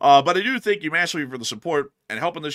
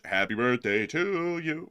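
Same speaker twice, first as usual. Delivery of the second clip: voice crack; slower than usual. Real, not acted. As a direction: voice cracking mid-phrase. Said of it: "that was a bad voice crack".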